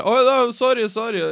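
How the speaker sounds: high, loud, embarrassed sorry; flustered apology. Retold or imitated. Storyteller barging into toilet apologises, high and flustered. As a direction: blurt the apology, caught off guard.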